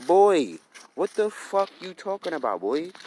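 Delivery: put-on high-pitched, loud opening on boy; incredulous outburst. Man retelling his reply to her emotional outburst, incredulous. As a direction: call them out in high, exasperated disbelief.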